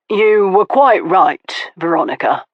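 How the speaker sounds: offhand, as if it hardly matters; casual Stoker voice. Acted. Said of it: "he said in a casual tone".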